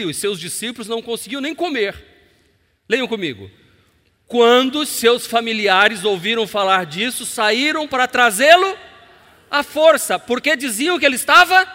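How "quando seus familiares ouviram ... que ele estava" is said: preaching at full force. Real, not acted. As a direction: proclaim the verse. Leitura bíblica em voz alta. (pregação em voz alta)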